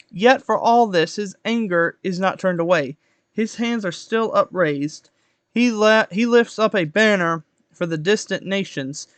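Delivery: measured Bible reading aloud; projected, even read-aloud delivery; scripture reading. Acted. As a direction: read the verses out with deliberate phrasing.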